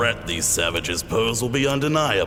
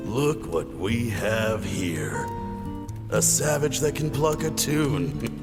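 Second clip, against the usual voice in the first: menacing gloat. Acted. Commander gloats over trapped family.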